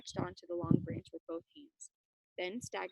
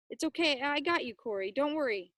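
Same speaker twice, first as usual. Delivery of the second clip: reassuring call; 4 semitones higher, 4 dB louder than usual. Acted. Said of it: "Ben called back".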